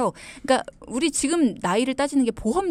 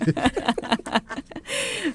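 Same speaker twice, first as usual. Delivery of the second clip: high giggling laugh; amused laughter; 6 semitones higher than usual. Real, not acted. Host laughing at the expert's red face, amused. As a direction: keep giggling helplessly.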